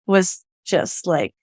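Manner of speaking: usual speaking voice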